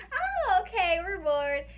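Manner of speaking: high laughing mock bored. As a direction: giggle through it. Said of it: "my sister's like".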